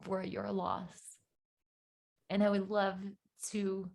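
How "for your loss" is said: stock condolence. Shown as a demonstration. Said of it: "the first thing that you want to say is".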